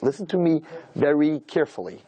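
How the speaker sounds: "Listen to me very carefully" drawn out word by word; slow, deliberate warning. Retold or imitated. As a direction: imitate a father's measured warning, taking twice the time. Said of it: "This is exactly how he said it".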